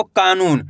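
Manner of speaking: "कानून" with a long, drawn-out का; stretched vowel. Shown as a demonstration. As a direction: hold the आ in "कानून". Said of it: "का का उच्चारण खींच को रहा".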